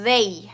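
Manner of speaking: They opening on a long, humming TH; They with sustained throat vibration on TH; voiced TH. Shown as a demonstration. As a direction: hold the buzz of TH, then release "They".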